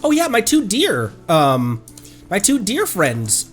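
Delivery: ordinary talk, nothing marked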